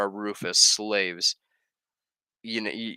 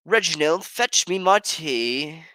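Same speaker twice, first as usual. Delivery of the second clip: high, slow, loud posh lady; imperious plummy grande dame; 8 semitones higher, 6 dB louder, slower than usual. Pretend. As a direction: order the servant like a grand lady. Posh order to servant.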